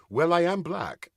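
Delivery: a light hint of regal King Arthur with a laugh; lightly voiced kingly dignity, deadpan comeback. On stage answering Alex, a hint of King Arthur's voice. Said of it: "in King Arthur's voice".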